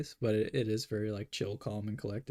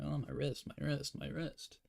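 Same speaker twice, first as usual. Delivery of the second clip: mock whining; 4 semitones higher, 4 dB quieter than usual. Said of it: "I sound like such, like, a sore loser".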